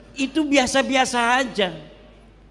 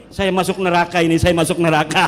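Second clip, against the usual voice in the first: hammed-up frightened cry of "Saya masuk neraka", louder and fast; mock trembling panic; 3 semitones lower, 6 dB louder, faster than usual. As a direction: mimic a Wahhabi scared stiff of hell, with a laugh breaking in. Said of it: "dia ngegeter-geter". (ketakutan gemetar yang dibuat-buat, lebih keras dan cepat)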